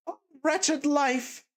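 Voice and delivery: slow, high wail of despair; despairing cry. A narrator's reading. Katerina at the window, slow despairing cry. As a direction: lament it slowly at the window. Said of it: "exclaimed in despair".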